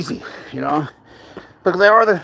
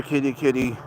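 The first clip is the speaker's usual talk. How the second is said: tired soft kitty call; 6 dB quieter than usual. Retold or imitated. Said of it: "Seven hours of here".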